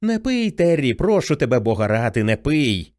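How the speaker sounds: put-on a young brother begging his sister not to drink; pleading teen boy. Boy's voice begs Terri to stop drinking, urgent then sinking. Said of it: "той самий хлоп'ячий голос".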